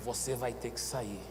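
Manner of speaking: low, soft, firm order; retold quiet command. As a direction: command it under your voice, unhurried. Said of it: "Eu falei bem baixinho". (ordem dita bem baixinho)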